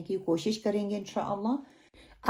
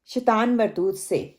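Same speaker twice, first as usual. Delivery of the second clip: recitation. Shown as a demonstration. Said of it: "چلیں، انشاءاللہ اینڈ پہ".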